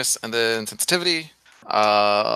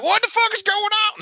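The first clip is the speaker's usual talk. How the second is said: high, mock yell jumping from the bush; stage whisper yelling. Jumping out of the bush at the group, mock yell. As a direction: burst out with a hammed-up yell. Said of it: "Stage whisper yelling".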